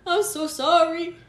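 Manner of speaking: high, loud, laughing through it; giggling while owning up; laughing confession. Retold or imitated. Confessing to mom in a story.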